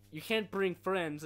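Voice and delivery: annoying CIA guy voice. Retold or imitated. Friend recites CIA agent line, slow and loud. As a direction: drag it out like a smug agent. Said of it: "the C I A guy has the most annoying fucking voice ever".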